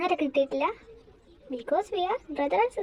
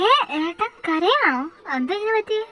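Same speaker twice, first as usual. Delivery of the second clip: alarmed; 4 semitones higher, 8 dB louder than usual. Acted. Sister alarmed at crying brother.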